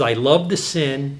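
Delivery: slow, each word set apart, "the" leaned on; slow quoted line. Retold or imitated. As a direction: read it out slowly as a quote, landing on "the". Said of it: "this is a quote".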